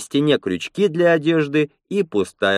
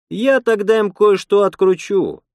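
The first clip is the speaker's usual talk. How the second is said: higher, louder woman's threat; mock threat; 10 semitones higher, 5 dB louder than usual. A narrator's reading. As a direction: voice her mild threat with raised pitch and force. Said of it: "пригрозила Лена".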